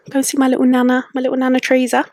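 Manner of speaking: sweet, high and doting; fond, cutesy. Real, not acted. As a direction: say it like cooing over a beloved little nana. Fond mention of her nana.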